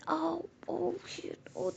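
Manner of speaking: high, drawn-out whispered yelp; sudden cry of pain. Acted. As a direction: cry out as if your hand hurts. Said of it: "अचानक से चिल्लाती". (दर्द से अचानक ऊँची चीख)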